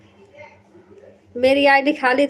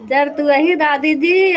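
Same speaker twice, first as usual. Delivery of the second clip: slow teasing repeat; 2 semitones higher than usual. Shown as a demonstration.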